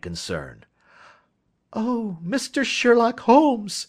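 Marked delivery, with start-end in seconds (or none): 1.7-3.9 high, loud, drawn-out slow cry; young woman bursting in to the detective, high and loud; excited cry. A narrator's reading. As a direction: call out to him in rushing relief. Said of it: "she cried".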